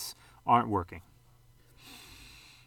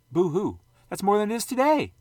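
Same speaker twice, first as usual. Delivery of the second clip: mock boo-hoo; 9 semitones higher, 6 dB louder than usual. Mocking crying investors.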